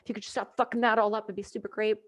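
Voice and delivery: mock polite plea. Gunner asking the Americans to be nice, soft mock politeness. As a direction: ask them nicely, hushed. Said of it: "and I'm like".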